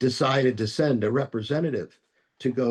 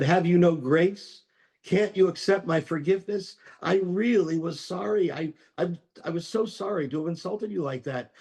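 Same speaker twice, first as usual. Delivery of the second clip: higher, pleading and exasperated; frustrated plea; 6 semitones higher than usual. Acted. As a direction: beg him to accept the apology, a little hurt. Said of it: "the student was frustrated and upset".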